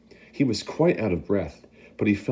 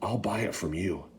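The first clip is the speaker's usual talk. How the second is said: much softer, secret offer; whispered; 7 dB quieter than usual. Acted. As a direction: tempt him quietly. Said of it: "the man whispered".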